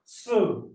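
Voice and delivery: "so" set apart, vowel like "suh"; cedilla C sound. Shown as a demonstration. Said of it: "say become".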